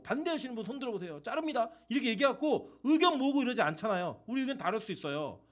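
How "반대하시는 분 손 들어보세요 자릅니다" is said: mock threat. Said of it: "제가 예를 들어 칼 들고".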